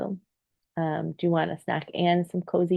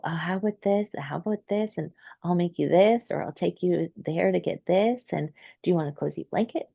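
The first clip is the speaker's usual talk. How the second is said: doting parent voice; 2 semitones higher than usual. Retold or imitated. Mother offering her hungry kiddo comforts, in a lightly doting voice. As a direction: coax a child gently with one offer after another. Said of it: "I go".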